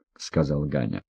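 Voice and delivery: ordinary delivery, nothing marked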